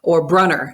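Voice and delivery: "Brunner", the name as Midwesterners say it; Midwestern pronunciation. Shown as a demonstration. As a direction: say "Brunner" with a short "uh" vowel, BRUH-ner. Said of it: "as our Midwestern cousins say".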